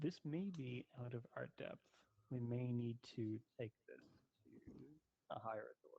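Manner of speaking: voice dropped way down. A character rises and turns to a companion, speaking in a lowered voice. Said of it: "lower her voice considerably".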